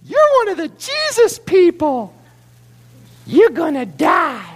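put-on high, slow, eerie child voice; creepy little kid. Little servant girl creepily telling Peter he will die, high and slow. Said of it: "Creepy little kid".

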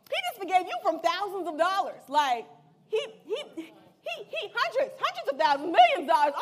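acted protest, tripping over the first words; mock indignation. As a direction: splutter over the huge sum in mock outrage. Acts out indignant reaction to Stephen.

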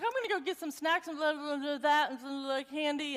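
a hint of a mumbling daughter. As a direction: mumble it like a sleepwalking teen. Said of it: "kinda mumbling in there".

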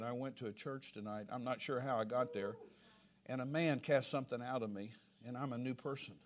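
soft, low, subdued retelling of a weeping son; retold tearful confession. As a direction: drop the voice for a humbled confession. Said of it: "he began to weep and cry".

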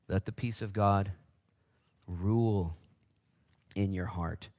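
a touch of reverent quiet; slow solemn reading. Acted. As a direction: let the verse sink in. Slow emphatic scripture line.

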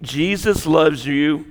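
put-on soft, soothing southern accent; southern-accented nursery lullaby, lightly imitated; soothing southern nursery worker. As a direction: comfort a child in a gentle southern lilt. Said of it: "a nursery worker who was singing to you".

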